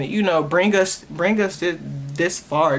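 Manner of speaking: stumbling over repeated words; stuttering. Real, not acted. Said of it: "I've been stuttering so much".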